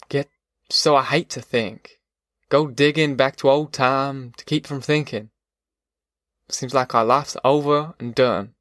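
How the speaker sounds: slow, understated weariness; lightly voiced despairing father. Pa telling Ma their life is over, slow understated despair. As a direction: let the hopelessness drag a little.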